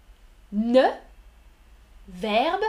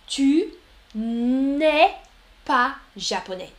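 Tu and n'es louder, pas japonais quick; n'es pushed; 3 dB louder than usual. Shown as a demonstration. Teacher stressing the elided negation for the class. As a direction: lean on n'es to show the elision. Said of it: "N apostrophe".

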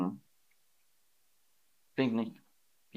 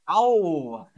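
mock ouch; 4 semitones higher, 3 dB louder than usual. Shown as a demonstration. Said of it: "auf Spanisch sagt man Au".

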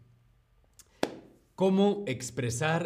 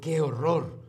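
shocked qué horror; 4 semitones higher, 4 dB louder than usual. Shown as a demonstration. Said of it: "podemos reaccionar diciendo".

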